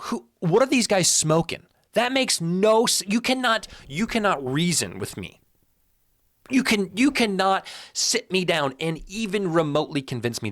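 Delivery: high-pitched disbelief, breaking off and restarting; incredulous outburst. Real, not acted. Pundit disputing a second-place vote, incredulous. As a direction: protest in a high, baffled voice.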